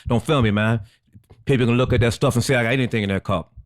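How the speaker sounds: a hint of an impersonation, slightly low; Guru. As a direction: mimic a man refusing the camera. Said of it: "his voice talked like that".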